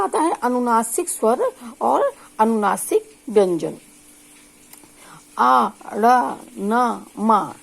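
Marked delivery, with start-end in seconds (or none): 5.4-7.5 आ रा ना मा drawn out slowly; slow nasal drill; nasal sounds demo. Shown as a demonstration. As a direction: sound out each nasal syllable. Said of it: "ये शब्द हैं".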